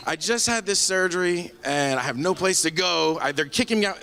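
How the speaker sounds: high, worked-up retold plea; exasperated protest. Patient telling Grayson he has no place to go, exasperated.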